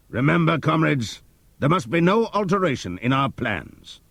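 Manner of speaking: high, loud commanding pig voice; rallying pig leader. Acted. Napoleon rallying the animals to rebuild the windmill.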